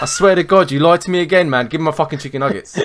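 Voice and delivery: mock threat, laughing as it runs out; demanding the nuggets back from the neighbour, mock furious; angry Luton lad. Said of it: "how would a Lutoner deal with this".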